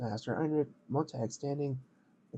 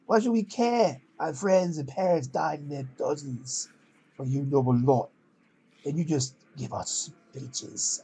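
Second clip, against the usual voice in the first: louder, slow and resentful; bitter teen voice; 4 dB louder, slower than usual. Acted. Scowling orphan confronts the noble captain, resentful and loud. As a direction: spit out the grievance. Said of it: "you gotta do it in the voice".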